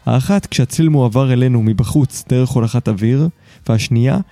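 measured, articulate host's monologue; scripted podcast narration. Acted. Host opens the episode for listeners, scripted narration. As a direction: read it as a polished podcast essay.

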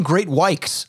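"great whites" with a K sound, like "great wikes"; "whites" ending in K before the S; mispronounced "whites". Retold or imitated. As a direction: say "whites" as "wikes", copying their slip. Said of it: "Why do you guys keep saying".

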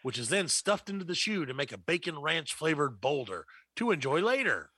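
hyped TV commercial voice; ad announcer. Acted. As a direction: sell it like a cheesy burger ad. Mock fast-food commercial read.

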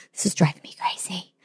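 unvoiced whisper of her own thoughts; whispered aside. Woman on a muddy walk whispering her inner thoughts. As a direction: breathe it as a secret to yourself.

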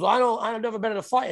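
retold protest, pitched well up; imitated reluctant opponent. Imitating Josh backing out of fight.

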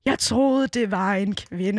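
horrified realisation, dragged out slowly at the end; mock horrified. Imitating the man who shouted at a drag queen, mock horrified. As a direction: act out his appalled apology, drawing out the last words. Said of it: "rædslen bliver malet i hans ansigt".

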